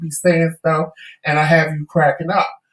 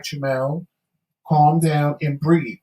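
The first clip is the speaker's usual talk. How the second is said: slow soothing calm-down; 3 semitones lower, slower than usual. Retold or imitated. Calming husband after surgery.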